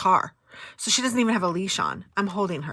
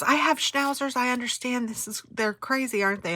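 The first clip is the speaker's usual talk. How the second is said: higher, chatty stranger voice; imitating the lady; 6 semitones higher than usual. The kind woman sympathising about her own schnauzers, in a lightly higher voice. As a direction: lift your pitch as a friendly dog owner. Voicing the nice lady at post office.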